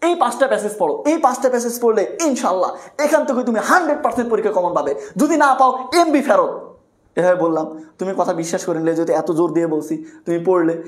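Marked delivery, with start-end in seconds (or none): 0.0-6.5 lightly voiced salesy tutor promising sure marks, with a laugh; mock hype tutor. Shown as a demonstration. Teacher mocks a hype tutor's guarantee to students, light salesy parody. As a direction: parody an overconfident coaching ad, half laughing. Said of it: "আবার shoot করি".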